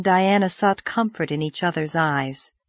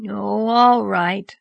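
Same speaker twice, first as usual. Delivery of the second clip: somewhat comforted; much slower than usual. Acted. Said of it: "somewhat comforted".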